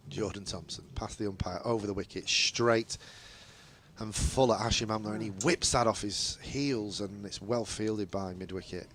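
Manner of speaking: lightly voiced cricket commentary, steady and measured; live play-by-play. Commentator calling the ball to radio listeners, measured play-by-play.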